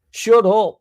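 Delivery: high, loud shut up; exasperated outburst at the TV; mock-angry shout. Real, not acted. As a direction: bark it at the screen. Ranting at a TV pundit.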